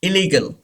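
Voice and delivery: ILLEGAL as i-LEE-gul, one L; single L. Shown as a demonstration. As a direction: glide through "illegal" with a short L. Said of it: "एक एल pronounce नहीं होगा". (illegal में एक L silent, "इलीगल")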